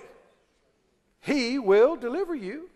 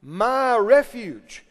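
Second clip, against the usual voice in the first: declaration of faith; 3 dB louder, slower than usual. Shown as a demonstration. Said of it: "you can say it like this".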